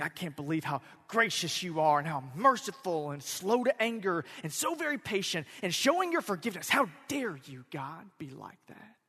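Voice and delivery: acted-out accusation with punched words; indignant accusation. Jonah indicting God for being merciful, mock indignant. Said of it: "using it as an indictment against God".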